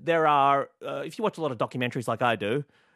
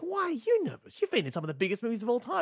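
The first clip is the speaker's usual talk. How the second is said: incredulous; 9 semitones higher than usual. Retold or imitated. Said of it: "And I was like".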